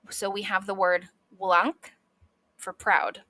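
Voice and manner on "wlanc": "wlanc" with W sounded before L; W-L cluster. Shown as a demonstration. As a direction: glide from W straight into L in "wlanc". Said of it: "W L is W plus L".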